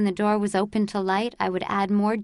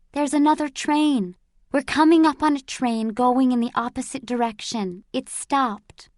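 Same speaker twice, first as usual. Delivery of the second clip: excited report; 5 semitones higher than usual. Acted. Boy at window reports train.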